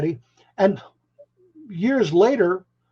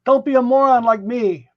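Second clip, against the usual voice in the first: louder, higher, tongue-in-cheek barking of orders; mock gruff advice; 5 semitones higher, 5 dB louder than usual. Joking with the host, mock-gruff advice to give up music. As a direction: play the grumpy veteran telling them to quit.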